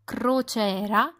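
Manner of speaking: "Crociera" avec les R roulés, lentement; R roulé italien. Shown as a demonstration. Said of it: "La lettre R se prononce toujours au lait". (« Crociera » à l'italienne, R roulés)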